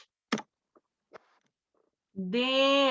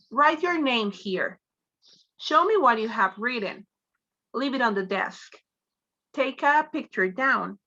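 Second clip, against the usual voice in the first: orders with pitch falling at each end, as on "here" and "pockets"; falling intonation commands. Shown as a demonstration. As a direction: model each command with a drop on its last words, "here", "desk", "pockets". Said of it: "it is commonly found in commands".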